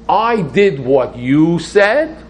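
high, loud, drawn-out challenge; challenging. Acted. Worshipper holding God to his promise, challenging. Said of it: "So I'm challenging God to say".

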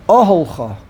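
oholcha with a strong O at the front, the rest lighter; stress on first syllable. Shown as a demonstration. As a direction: put the weight on the opening O of oholcha. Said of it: "emphasis goes on the ohel".

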